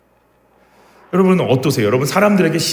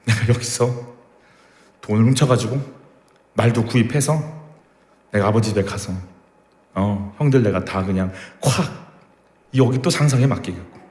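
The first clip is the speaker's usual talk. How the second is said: vengeful slave; 3 semitones lower than usual. Retold or imitated. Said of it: "막 이런 거".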